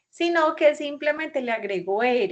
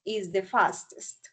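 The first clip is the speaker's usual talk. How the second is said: slow model sentence; slower than usual. Shown as a demonstration.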